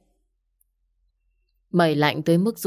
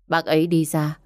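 ordinary delivery, nothing marked

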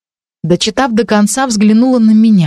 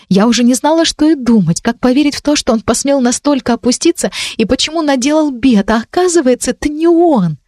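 lightly voiced, higher, relieved girl; 5 semitones higher than usual. Ранди благодарит, голос выше. (Ранди выше, с облегчением и благодарностью)

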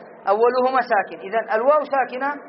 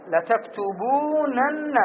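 each syllable stretched slowly; slow drawn-out demo; 2 semitones higher, much slower than usual. Shown as a demonstration. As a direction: spell it out slowly for the class. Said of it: "فنقول". (ببطء ومدّ للمقاطع)

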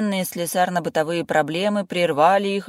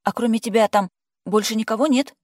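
wary question; 7 semitones higher, 6 dB louder than usual. A narrator's reading. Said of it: "опасливо поинтересовалась".

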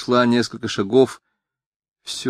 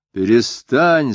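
заорал; 3 semitones higher, 4 dB louder, much slower than usual. Acted. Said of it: "заорал я".

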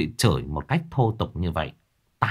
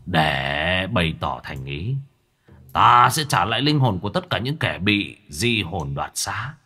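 softened voice. Acted. Old sorcerer proposing a fair duel, softened voice. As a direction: coax him, taking your time. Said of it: "Lão Cửu dịu giọng".

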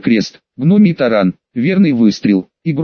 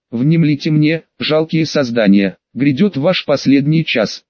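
booming arrogant alien overlord. Acted. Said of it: "пробирающий до костей неестественный голос".

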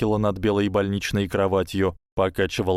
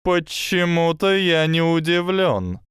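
high, slow serpent voice; a hissing snake, slow and sly; 9 semitones higher, 4 dB louder than usual. Acted.

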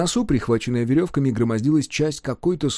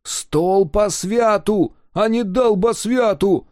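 higher, slow, correcting retort, "долбосвяту" stressed and falling; indignant correction; 9 semitones higher, 4 dB louder, much slower than usual. Acted. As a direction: set him straight, hammering "долбосвяту". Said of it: "осерчал древорез".

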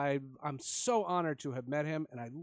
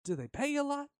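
teasing president; 9 semitones higher, faster than usual. Retold or imitated. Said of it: "And he goes".

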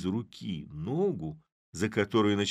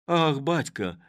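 anxious call; 7 semitones higher, 6 dB louder, slower than usual. A narrator's reading. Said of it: "произнесла Оксана".

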